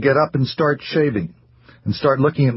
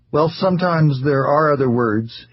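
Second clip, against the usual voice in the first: reluctant; 4 semitones higher than usual. Acted. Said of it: "he acknowledged reluctantly".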